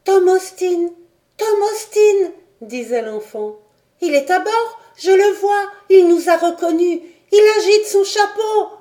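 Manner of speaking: put-on boy on the boat shouting with joy to the ship; boy's joyful cry. A narrator's reading. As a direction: shout like an excited boy spotting a friend. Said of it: "un cri de Robert".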